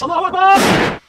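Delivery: high loud yell; hammed-up shrieked battle cry. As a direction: shout it as a war cry. Brother's battle cry in story.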